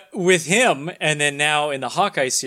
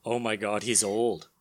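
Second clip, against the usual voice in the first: shocked; 6 semitones lower, 7 dB quieter than usual. Retold or imitated. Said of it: "I'm like".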